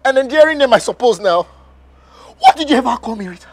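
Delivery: bitter anger. Acted. Husband rages at wife.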